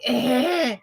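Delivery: throaty phlegm-choked grunt; phlegmy throat-clear grunt. Retold or imitated. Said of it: "and she's like".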